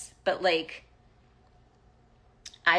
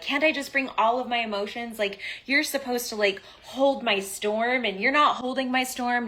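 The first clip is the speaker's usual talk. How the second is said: demanding complaint; 5 semitones higher, 3 dB louder than usual. Retold or imitated. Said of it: "and I'm like".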